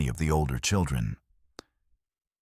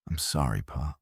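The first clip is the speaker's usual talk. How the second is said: sobbing; 2 semitones lower, 4 dB quieter than usual. A narrator's reading. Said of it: "Jake sobbed".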